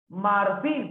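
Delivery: "Marfil" with FIL lifted and held; stress on last syllable. Shown as a demonstration. Teacher showing a palabra aguda, "Marfil" with stressed FIL. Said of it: "Marfil es aguda".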